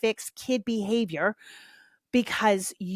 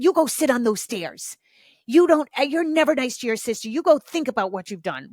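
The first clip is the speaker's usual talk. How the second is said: a hammed-up scolding, higher and louder; mock shaming scold; 4 semitones higher, 4 dB louder than usual. Shown as a demonstration. Demo of a shaming parent sending a kid to the stairs, mock angry scold. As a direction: bark the timeout order like a fed-up parent. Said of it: "punishment often comes from that".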